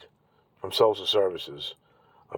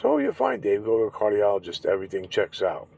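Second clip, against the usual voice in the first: mocking the doctor. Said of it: "No insurance".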